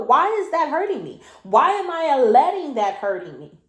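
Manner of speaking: incredulous questions to yourself, stressed and swooping; exasperated self-questioning. Real, not acted. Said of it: "you hear the tone of voice that I have".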